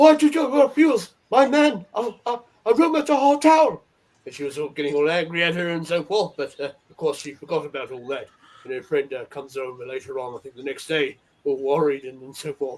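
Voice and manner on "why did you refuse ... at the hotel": very high-pitched, slow put-on Japanese accent. Retelling an aunt's prank phone call to a hotel, put-on Japanese accent. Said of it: "her best Japanese voice".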